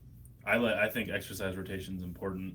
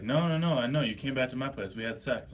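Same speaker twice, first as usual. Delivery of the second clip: high, loud insisting; insistent woman; 5 semitones higher, 7 dB louder than usual. Retold or imitated. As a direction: insist loudly, rising high. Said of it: "she's like".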